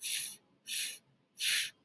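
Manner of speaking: breathy unvoiced "f" hiss; sounding out F for fire. Shown as a demonstration. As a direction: model the f sound. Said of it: "Do you hear that?".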